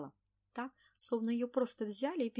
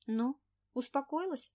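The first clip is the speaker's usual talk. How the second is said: gentle question; 6 semitones higher, 6 dB louder, slower than usual. Acted. Anna soothing friend.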